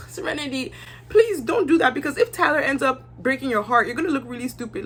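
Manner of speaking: pleading lecture. Retold or imitated. Speaker lecturing Serenity.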